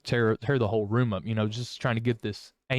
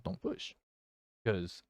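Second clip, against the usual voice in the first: a breathy whisper of a warning; whispered plea to back off; 10 dB quieter, slower than usual. Retold or imitated. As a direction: hiss it out under your breath. Warning, anger close to tears.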